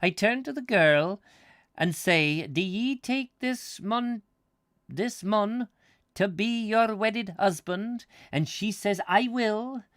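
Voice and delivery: high, emphatic mock-Scots priest; hammed-up Scottish officiant; attempted Scottish accent. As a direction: explain it in a wobbly put-on Scottish accent. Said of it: "I can't do the accent very well".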